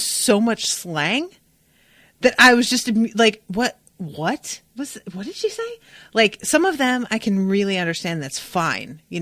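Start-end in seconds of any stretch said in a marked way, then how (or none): 3.5-5.8 baffled. Retold or imitated. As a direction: act out being totally lost. Acting out her own baffled reaction.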